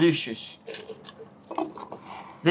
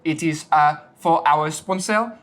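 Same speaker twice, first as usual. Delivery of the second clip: a hammed-up French accent, zis for this. Little French boy mixing a sponsor cocktail, in a hammed-up French accent. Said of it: "Little French boy, take it over".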